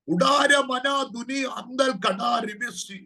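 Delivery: slow, drawn-out tongues syllables; speaking in tongues. Real, not acted. Prophet breaking into tongues mid-prophecy, slow and drawn out.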